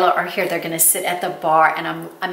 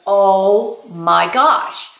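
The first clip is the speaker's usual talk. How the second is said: slow amazed gasp; 4 dB louder, much slower than usual. Retold or imitated. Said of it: "he goes".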